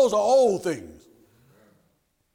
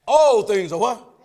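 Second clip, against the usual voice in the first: slower, insistent call for an answer; demanding repeat call; 7 dB louder, slower than usual. Shown as a demonstration. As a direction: draw the answer out of them. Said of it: "I didn't hear that".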